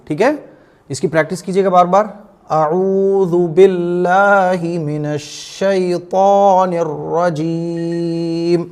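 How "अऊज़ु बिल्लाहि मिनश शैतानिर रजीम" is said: very slow, measured tajweed chant; Quranic recitation. Shown as a demonstration. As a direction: draw out each long vowel, hold the final रजीम. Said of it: "इस तरह से आपको अऊज़ु बिल्लाह हमेशा पढ़ना है". (धीमी, खींची हुई तजवीद वाली तिलावत)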